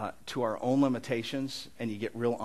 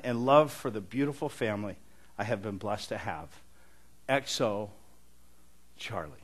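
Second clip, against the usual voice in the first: heartfelt letter reading. Acted. Pastor reading a grieving friend's letter to the congregation, solemn and tender. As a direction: let the grief sit under each line.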